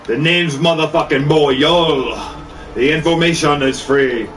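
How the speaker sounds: slow chanted hook in a Jamaican accent. Shown as a demonstration. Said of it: "I wanna sing in a Jamaican accent".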